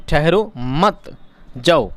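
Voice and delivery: "ठहरो मत" slowly drawn out, pause, then "जाओ"; don't stay, go. Shown as a demonstration. Teacher explaining it means go, pausing before "जाओ". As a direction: stretch "ठहरो मत", set "जाओ" apart. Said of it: "यानी सिर्फ ठहरना नहीं है".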